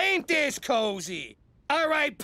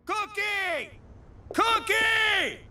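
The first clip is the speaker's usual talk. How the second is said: calling out; 10 semitones higher, much slower than usual. Acted. Calling out for someone.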